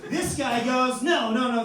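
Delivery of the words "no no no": very loud string of refusals; imitated heckler's emphatic protest; loud objection. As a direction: barge in to disagree. Another acted objection.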